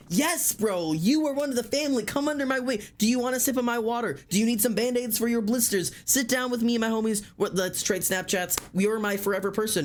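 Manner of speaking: high, bubbly big-sister welcome; thrilled extrovert. Pretend. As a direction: gush like you've just adopted a new best friend.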